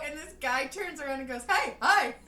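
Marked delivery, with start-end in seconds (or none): 1.5-2.1 high, loud mock greeting; loud, overdone hello; eager greeting. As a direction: imitate a stranger answering a shout. Stranger answers the call, retold.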